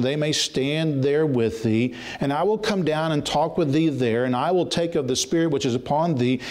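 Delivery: measured, solemn reading of the verse; scripture reading. Acted. Preacher to congregation, solemn scripture reading. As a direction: read the Lord's words with weight.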